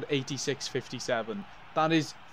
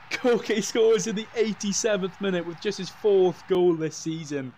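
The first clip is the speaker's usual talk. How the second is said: higher and louder broadcast recap; still-buzzing recap; 6 semitones higher, 5 dB louder than usual. Acted. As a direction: keep the goal excitement in the summary. Commentator recap after the goal.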